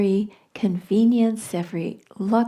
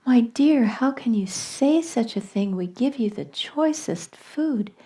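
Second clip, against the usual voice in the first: appalled protest; 4 semitones higher than usual. Retold or imitated. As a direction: imitate shocked in-laws, gently indignant. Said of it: "were just appalled, and they said".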